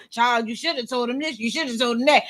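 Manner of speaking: low, soft mock-advice voice; hushed meddling coworker; gossiping coworker.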